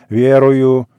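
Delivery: loud, drawn-out solemn ВЕРУЮ; solemn declaration. A narrator's reading. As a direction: proclaim it solemnly, holding the word out. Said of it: "Торжественно повторяй".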